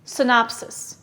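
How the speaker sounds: careful teacher model of Synopsis; model word for repeating. Shown as a demonstration. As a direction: say Synopsis. clearly for the class to echo. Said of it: "Repeat after me".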